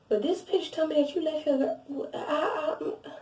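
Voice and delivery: laughing through the words; breaking into laughter mid-sentence. Real, not acted. Retelling her text to the ex, laughing.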